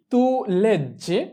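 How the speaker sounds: tu leggi said very slowly, word by word; slow repeat. Shown as a demonstration. Teacher repeating tu leggi for students, very slow. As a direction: stretch tu leggi out for learners. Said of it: "তুমি পড়ছো বা তুমি পড়ো".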